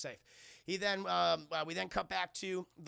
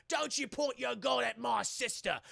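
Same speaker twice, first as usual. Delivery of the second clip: slow, raised, protective brother impression; drawn-out mock threat, higher than usual; Shaw; 5 semitones higher, 4 dB louder than usual. Brother bursts in on standoff, slow protective warning. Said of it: "Shaw comes in. He's like".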